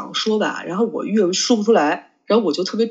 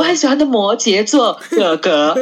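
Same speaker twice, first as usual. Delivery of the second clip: slow, louder gushing over her crush; 5 dB louder than usual. Real, not acted. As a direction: draw it out fondly, slightly louder. (慢慢地、稍大声地、深情地说出)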